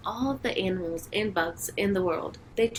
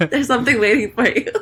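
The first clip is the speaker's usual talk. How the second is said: amused cat voice, loud and higher; laughing; 4 semitones higher, 11 dB louder than usual. Acted. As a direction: break up while playing the cat. Voicing her cat, both laughing.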